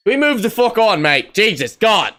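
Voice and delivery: high, loud fed-up exclamation; exasperated outburst. Pretend. Host demands they move on, loudly exasperated. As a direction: burst out in mock exasperation.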